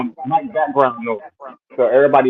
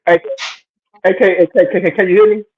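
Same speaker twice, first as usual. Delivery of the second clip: raised, higher-pitched checking voice; loud mic check; 5 semitones higher, 3 dB louder than usual. Real, not acted. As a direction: call out louder to check you're heard. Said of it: "he hella loud".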